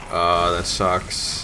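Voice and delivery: slow, sympathetic sigh of sorrow; drawn-out, feeling-sorry "Oh"; commiserating. Real, not acted. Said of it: "I'm sorry to hear".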